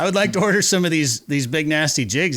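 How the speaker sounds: put-on retry the Finnish accent, still hammy; second try at a Finnish accent. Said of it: "Try again".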